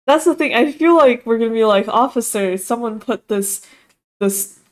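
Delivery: loud, eager rambling; excited. Real, not acted. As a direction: spill it out excitedly. Player excited, imagining police.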